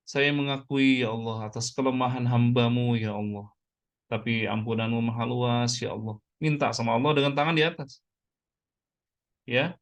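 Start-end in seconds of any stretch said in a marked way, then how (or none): 0.1-6.2 subdued plea, each phrase sinking at the end; confession prayer. Shown as a demonstration. Preacher models admitting weakness before God, subdued prayer. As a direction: humbly pray it out to God.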